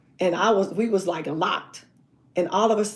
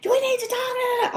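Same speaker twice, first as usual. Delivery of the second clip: high pleading question; lightly voiced boyfriend at the car window. Boyfriend at her car door, lightly pleading.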